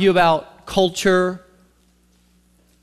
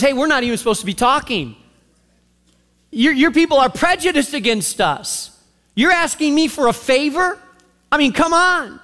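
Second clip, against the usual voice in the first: higher-pitched, indignant challenge; sassy retort; 4 semitones higher than usual. Acted. Samaritan woman challenging a Jew who asks a favor, sassy. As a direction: push back with a head-wagging attitude. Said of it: "you can almost feel it there in how she responds".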